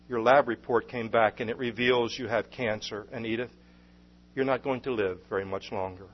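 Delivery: low and softening as the bad news lands; heavy-hearted. Doctor tells Edith she has cancer, heavy-hearted. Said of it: "with a heavy heart".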